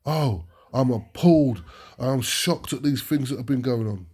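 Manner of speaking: slow, hammed-up shocked official voice; sarcastic imitation of a shocked fire commissioner; mock-appalled official. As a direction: parody the fake outrage of a commissioner. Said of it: "coming out and saying".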